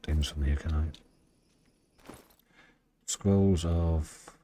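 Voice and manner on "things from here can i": soft unvoiced whisper. Real, not acted. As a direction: breathe the question quietly. Quiet question while playing.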